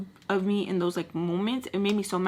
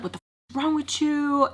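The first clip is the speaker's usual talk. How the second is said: higher-pitched indignant demand; mock outrage, pitched up; imitating mad boyfriend; 7 semitones higher than usual. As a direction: act out his angry outburst. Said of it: "he starts getting mad".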